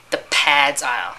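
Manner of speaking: "pads aisle" repeated slowly in disbelief; incredulous repeat. Real, not acted. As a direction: echo "The pads aisle" slowly, as if you can't believe it. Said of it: "You mean, like, you know".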